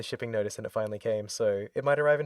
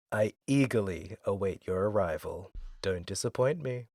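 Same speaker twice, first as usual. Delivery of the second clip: lightly voiced scheming villain, a touch lower and softer; villain Georg letter; 3 semitones lower, 4 dB quieter than usual. Host reads the villain's letter in a lightly voiced sinister tone. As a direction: read it as a quietly menacing schemer. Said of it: "Pitch your voice down a little bit".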